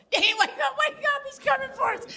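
very high, loud yell, fast at the end; panicked shout. Retold or imitated. Wife still terrified, shouting for Danny to wake. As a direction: scream for him to wake up. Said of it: "And I'm like, still".

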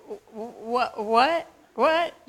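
sputtering what what what; stammering shock. Retold or imitated. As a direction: trip over the words in shock. Stunned at the address.

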